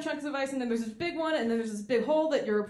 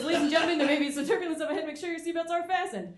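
higher pilot intercom voice; pilot announcement; 6 semitones higher than usual. Retold or imitated. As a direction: warn passengers of turbulence. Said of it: "And he goes".

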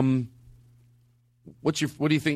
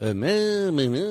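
mock singer mumble; slower than usual. Shown as a demonstration. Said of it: "it's close enough".

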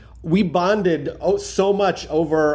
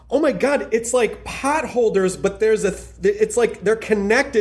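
excited discovery; 4 semitones higher than usual. Retold or imitated. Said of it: "And I go".

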